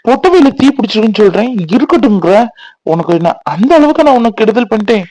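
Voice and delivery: upset scolding. Acted. Man rebukes her for letting fire burn, upset.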